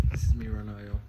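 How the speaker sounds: talking with swollen sore gums; after wisdom teeth. Real, not acted. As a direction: speak carefully around a sore mouth. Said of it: "I can't stretch it out far 'cause my tongue hurts".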